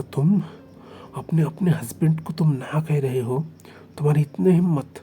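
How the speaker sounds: sharp angry rebuke, rising to a shout; furious outburst. Acted. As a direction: scold him hard, outraged. Husband furious after slap.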